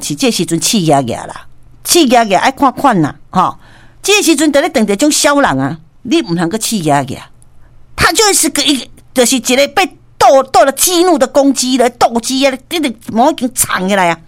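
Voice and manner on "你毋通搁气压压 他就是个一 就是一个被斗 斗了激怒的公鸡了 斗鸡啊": ordinary talk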